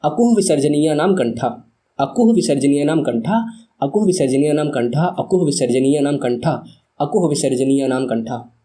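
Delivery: steady chanting recitation of the formula; recitation drill. Shown as a demonstration. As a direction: recite it like a rote memory drill. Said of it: "मैं आपसे कहूँगा कि आप मेरे साथ repeat ज़रूर करें".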